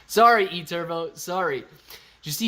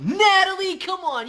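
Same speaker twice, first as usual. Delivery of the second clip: squeaky high-pitched whine; high protest; 14 semitones higher, 6 dB louder than usual. Real, not acted. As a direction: whine her name up high. Calling out to a viewer.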